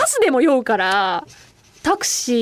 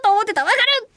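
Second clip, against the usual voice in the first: eager sympathy; 8 semitones higher than usual. Retold or imitated. Sympathising with a corrected co-actor.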